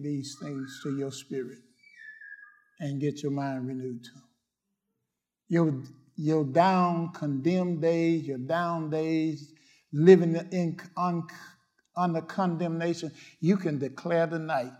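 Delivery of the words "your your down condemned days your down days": gentle, slowed-down comfort; slow tender. Real, not acted. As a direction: ease them with slow soft words.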